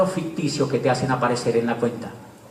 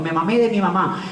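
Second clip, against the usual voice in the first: niño travieso; 4 semitones higher than usual. Retold or imitated. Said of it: "Y le digo yo".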